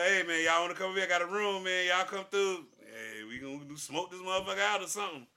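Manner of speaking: quick, loud, calling the fellas over; calling the boys. Retold or imitated. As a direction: hype the friends up to come through. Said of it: "so you know me".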